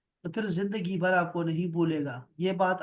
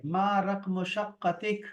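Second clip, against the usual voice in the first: slow model question; much slower than usual. Shown as a demonstration. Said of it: "تو اس نے کہا".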